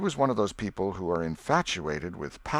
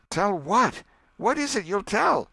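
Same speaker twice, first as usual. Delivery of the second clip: put-on higher, sharp questioning kid voice; Sid probing; 12 semitones higher, 5 dB louder than usual. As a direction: pounce on the slip, eager to know.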